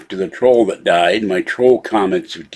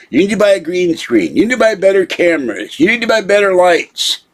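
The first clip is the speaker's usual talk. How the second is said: much higher, stress on "buy" each time; exasperated mock imitation; mocking nag; 9 semitones higher than usual. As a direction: parrot the nagging advice scornfully. Mocking repeated advice, pitch high.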